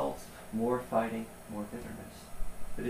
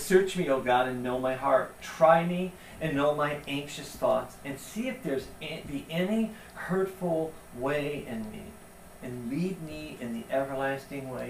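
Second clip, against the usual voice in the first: scripture reading. Acted. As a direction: proclaim the psalm slowly and with weight. Reads a psalm aloud.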